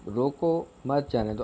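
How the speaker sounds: "रोको" set apart, pause, then "मत जाने दो" together; pause after रोको. Shown as a demonstration. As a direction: break right after "रोको", keeping "मत" with "जाने दो". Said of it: "रोको" के बाद क्या आया है". ("रोको" के बाद ठहराव, फिर "मत जाने दो" एक साथ)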